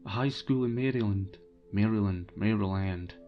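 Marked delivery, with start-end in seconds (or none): 1.7-2.3 tentative American-style "Maryland"; attempted American accent. Shown as a demonstration. British host testing how a US place name sounds, attempted American accent. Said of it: "try and pronounce it in an American accent". 2.4-3.1 "Maryland" in a tentative American accent, last syllable as "land"; attempted American accent. Shown as a demonstration. Host unsure how you pronounce it, attempted American accent. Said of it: "try and pronounce it in an American accent".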